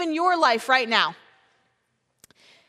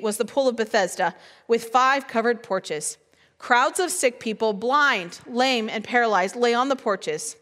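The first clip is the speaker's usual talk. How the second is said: measured Bible reading, lower and steady; calm, lower scripture narration; 3 semitones lower than usual. Acted. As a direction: read the passage to the congregation. Reads John chapter five aloud.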